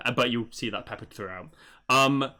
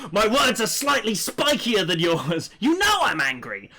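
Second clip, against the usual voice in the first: high, loud, hammed-up anger; slow, over-the-top comic fury; mock angry; 7 semitones higher, 4 dB louder than usual. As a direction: voice spiky text as exaggerated rage. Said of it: "so you know he's mad".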